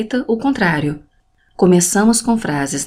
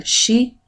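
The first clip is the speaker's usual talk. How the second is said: "she" lifted higher as the question's last word; "she" pitched up for a question; strong raised final word; 4 semitones higher than usual. Shown as a demonstration. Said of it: "é o som mais forte".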